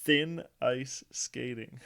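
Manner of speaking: Thin ice skating said slowly, each word clear; slow careful correction. Shown as a demonstration. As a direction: spell it out slowly. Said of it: "try that again".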